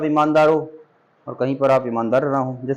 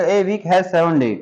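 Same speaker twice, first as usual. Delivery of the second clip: slow dictation pace; much slower than usual. Shown as a demonstration. Teacher reading the sentence to students, slow and deliberate. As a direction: read "A week has seven day" very slowly, word by word. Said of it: "reads example slowly".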